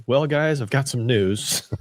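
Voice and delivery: high, slow teasing reveal; mock announcement. Host pretending to break big news, mock serious. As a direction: ham up a big news drop. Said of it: "and say".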